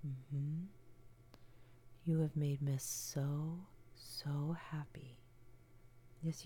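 tender comforting whisper close to the ear; ASMR whisper. Acted. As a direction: soothe a trembling partner in a hushed whisper. Comforting partner whispered throughout.

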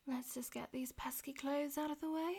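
whispering. Acted. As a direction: whisper it close to the ear. Whispered throughout.

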